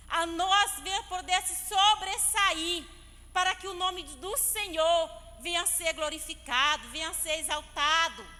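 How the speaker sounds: slow, drawn-out exhortation with punched words; emphatic preaching. Real, not acted. Preacher assuring the church of God's help, emphatic preaching. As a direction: preach it in long, stressed phrases.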